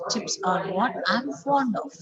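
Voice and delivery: final "of" fully pronounced, falling tune; sentence-final "of" kept strong, not reduced; strong form of. Shown as a demonstration. Teacher repeating the strong "of" example. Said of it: "So we have to pronounce it".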